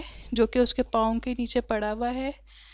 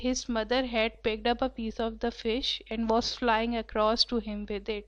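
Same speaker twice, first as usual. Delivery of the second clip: reading the passage very slowly and clearly; slow story reading; 3 dB quieter, much slower than usual. A narrator's reading. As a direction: read each word out slowly for the class. (کلاس کے لیے بہت آہستہ پڑھنا)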